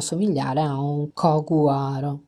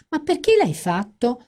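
higher, whiny protest; whining complaint; 8 semitones higher, 3 dB louder than usual. Acted. Fran whining at Mel after the call. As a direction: moan it like a sulky flatmate. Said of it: "si lamentò Fran".

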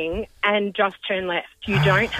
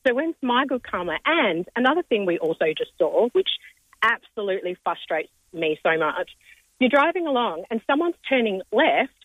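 hoarse cold voice, holding back yelling; croaky from a rip cold. Real, not acted. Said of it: "really badly wants to yell, but she can't".

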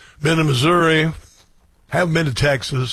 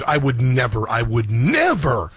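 mock innocence; 3 semitones lower, slower than usual. Real, not acted. Ironic denial of fraud claims.

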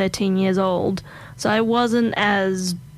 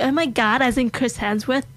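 mock-American fan reaction, higher; imitated American accent; 3 semitones higher than usual. Americans reacting to meeting an Australian, imitated American accent. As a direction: lightly put on an excited American accent. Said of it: "my American accent's not really that good".

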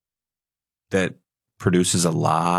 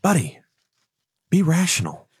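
angel voice; 4 semitones higher than usual. Retold or imitated. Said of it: "the angel's on the other side saying".

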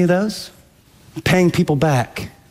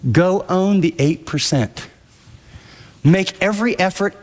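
ordinary delivery

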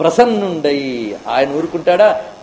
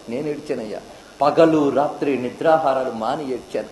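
much softer, heartfelt; quiet confession; 4 semitones lower, 4 dB quieter than usual. Acted. Ramakrishna quietly telling a seeker he wept for God. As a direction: admit it gently, almost in tears. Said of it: "Ramakrishna Paramahamsa చెప్పేట".

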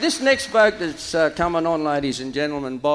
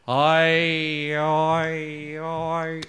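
put-on thick drunk voice; 2 semitones lower, much slower than usual. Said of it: "he said thickly".

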